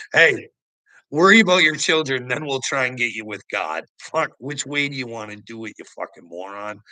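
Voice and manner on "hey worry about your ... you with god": imagined shout. Retold or imitated. Imagined yelling at politician.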